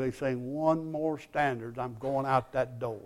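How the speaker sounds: very soft, low confidential mutter; hushed aside. Retold or imitated. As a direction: mutter it under your breath to your wife. Retold muttered aside to his wife.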